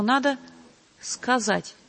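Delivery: СКАЗАТЬ set apart after a pause; deliberate, sounded word. Retold or imitated. Singer passing on her teacher's advice, СКАЗАТЬ said deliberately apart. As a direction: let СКАЗАТЬ sound out, not as everyday speech. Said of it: "чтобы слово прозвучало, его надо сказать".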